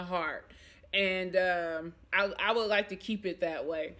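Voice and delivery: speaking with a dry mouth. Real, not acted. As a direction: talk through a parched dry mouth. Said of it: "my mouth is so dry".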